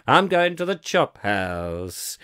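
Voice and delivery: put-on slow drawled old comic voice; W C Fields impression. Host quotes W C Fields for listeners, slow and drawled. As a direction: do a lazy 1930s comedian line. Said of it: "humour of W C Fields".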